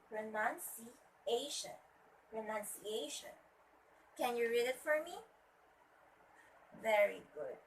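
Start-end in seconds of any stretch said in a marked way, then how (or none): 0.1-3.3 "pronunciation" slowly, syllable by syllable, pro-nun-ci-A-tion; careful pronunciation. Shown as a demonstration. Teacher modelling the word for students, "pronunciation" broken into careful syllables. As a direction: spell out the sounds of "pronunciation". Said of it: "It should be".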